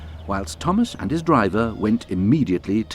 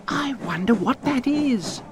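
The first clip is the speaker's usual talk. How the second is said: Thomas voice. A narrator's reading. Thomas thinking aloud in story.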